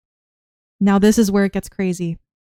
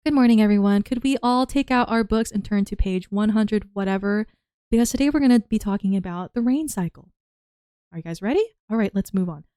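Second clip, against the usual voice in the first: calm teacher. Retold or imitated. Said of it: "here's what a normal class would have sounded like".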